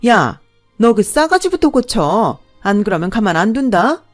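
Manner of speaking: the mother jumps up and threatens the bride, loud; furious threat. A narrator's reading. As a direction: jab your finger and threaten her. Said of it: "벌떡 일어나더니 저한테 삿대질을".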